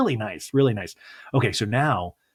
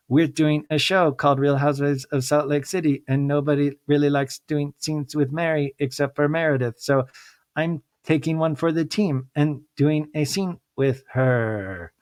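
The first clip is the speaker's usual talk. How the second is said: mocking impression; 4 semitones higher than usual. Voicing Whitney's inner thoughts.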